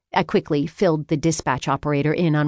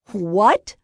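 high, raised cry of disbelief; 5 semitones higher, 4 dB louder than usual. A narrator's reading. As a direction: burst out in shocked protest. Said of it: "I cried".

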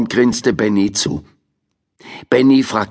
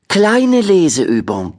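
put-on boy voice; 9 semitones higher, slower than usual. Benny voiced in story.

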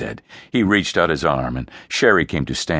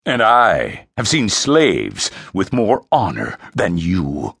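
retort; 2 semitones higher, 4 dB louder, slower than usual. Acted. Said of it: "Frey retorted".

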